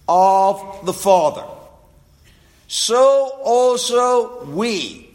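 slow, deliberate reading of the verse; slow scripture reading. Acted. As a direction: weigh each phrase of the text, slowly. Reads Galatians four slowly.

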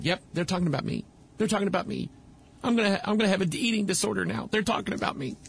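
lightly voiced girl convinced they mean her; hurried mock-paranoid muttering, lightly acted; paranoid playground girl. Voices paranoid girl reading lips.

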